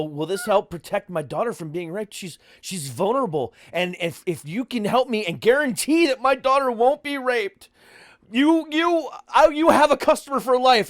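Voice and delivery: rising to a high, loud panicked plea; frantic worried parent. Retold or imitated. Prank caller to phone salesman, building to a high loud plea. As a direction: ham up a desperate parent begging. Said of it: "And I go".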